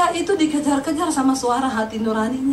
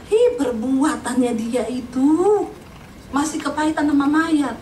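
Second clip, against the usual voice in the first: grudging neighbor; slower than usual. Retold or imitated. Preacher voices bitter neighbor again.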